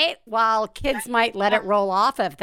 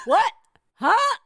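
mock huh; 11 semitones higher than usual. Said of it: "Such a sexier way to say".

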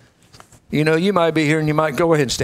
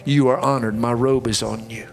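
earnest pastoral prayer; closing prayer. Acted. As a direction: pray over the room with conviction. Closing prayer over congregation.

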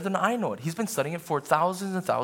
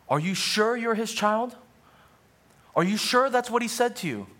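Satan taunting; 8 semitones higher, 4 dB louder than usual. Acted. Satan's lies in sermon.

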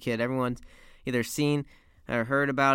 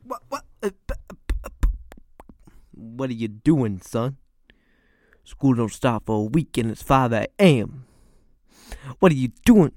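sputtering awake, then drawn-out loud scolding; hammed-up angry dad, building from stammer to bellow; dad's outraged bewilderment; 2 semitones lower, 6 dB louder than usual. Dad woken at five catching his son dressed, outraged bewilderment.

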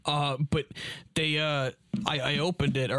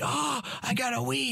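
high-pitched imitation of a hyped gift-getter; mock excited; 9 semitones higher than usual. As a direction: crow over the present, hammed up.

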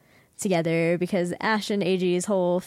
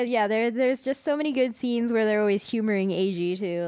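normal talking voice

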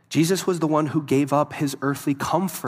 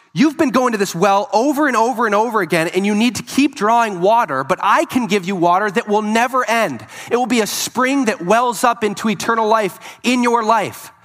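urgent Jesus; 5 semitones higher, 5 dB louder than usual. Acted. Jesus voiced pleading at the well.

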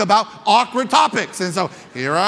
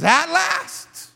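rising cry that drops back; Adam shouts. Acted. Preacher echoing Adam's shout, a rising cry. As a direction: call it out then settle. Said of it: "Adam shouts".

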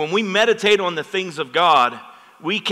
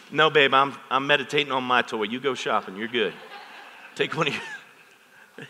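dismissive husband; 2 semitones lower than usual. Retold or imitated. Husband waving off wife's shopping trip, lazy dismissive voice. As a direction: brush her off, lost in your toy.

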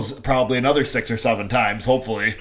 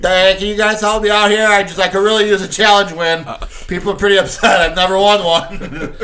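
pleading coach; 5 semitones higher, 4 dB louder than usual. Pretend. Voicing coach pleading to refs.

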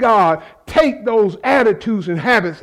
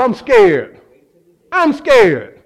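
raised voice, falling hard on 'scared'; emphatic confession; 3 semitones higher, 4 dB louder, much slower than usual. Retold or imitated. Preacher telling God the honest truth, emphatic confession. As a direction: cry it out as an honest admission.

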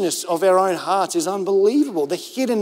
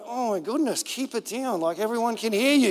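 put-on softer, a hushed parent telling the child to keep it down; hushed embarrassment; 5 dB quieter than usual. Dad hushing his daughter in a shop, softer. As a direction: hush her without drawing attention. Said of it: "I felt a bit like".

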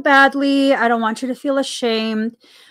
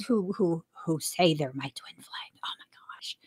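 whispering; 6 semitones lower, 12 dB quieter than usual. Acted. Mocking twin flame claim aside.

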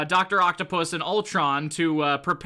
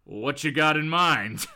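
slow, lower-pitched come-on; suggestive tough guy; 4 semitones lower, slower than usual. Acted. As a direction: answer slowly, low and interested. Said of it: "he's just like".

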